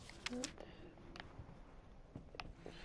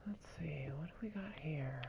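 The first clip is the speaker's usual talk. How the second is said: whisper; 6 dB quieter than usual. Real, not acted. Whispers while searching.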